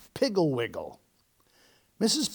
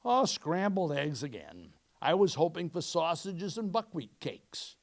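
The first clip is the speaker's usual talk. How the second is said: mild; 5 dB quieter than usual. Acted. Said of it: "He said mildly".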